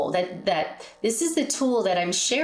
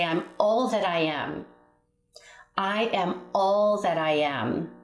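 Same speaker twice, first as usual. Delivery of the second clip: guided affirmation. Shown as a demonstration. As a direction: lead the listeners through it calmly, line by line. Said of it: "and say it with me, hand on your heart".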